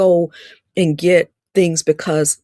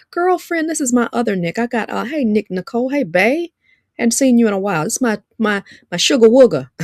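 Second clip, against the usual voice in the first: higher-pitched, teasing hello to friends; playful affectionate greeting; 6 semitones higher than usual. Real, not acted. Playfully greets people he knows.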